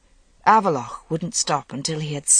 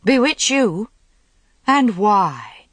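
laughing; 5 semitones higher, 5 dB louder, slower than usual. A narrator's reading. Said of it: "couldn't keep back her laughter".

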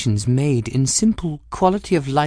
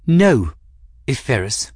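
vitriolic; 4 semitones lower than usual. Acted. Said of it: "precise vitriol the woman managed".

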